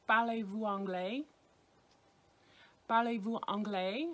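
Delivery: Parlez-vous anglais with the pitch rising at the end; rising question tune. Shown as a demonstration. Teacher showing students the question tune. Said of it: "with the intonation in your voice".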